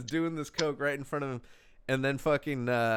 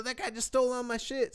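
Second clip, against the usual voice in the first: panicked victim; 12 semitones higher than usual. Retold or imitated. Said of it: "he's, like, screaming".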